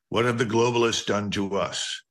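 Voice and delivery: ordinary talk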